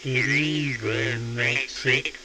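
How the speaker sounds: slow warbling vibrato effect; slow wobble. Shown as a demonstration. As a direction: voice wobbling slowly. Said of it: "wobble slowly".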